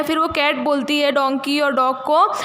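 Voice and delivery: usual speaking voice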